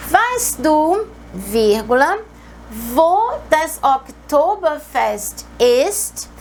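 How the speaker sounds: "Weißt du" lifted, then a clear break before "wo das Oktoberfest ist?"; slow down and mark the comma in "Weißt du, wo das Oktoberfest ist?"; teacher dictating the sentence with its comma; pause at the comma. Shown as a demonstration. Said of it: "eu tenho uma vírgula".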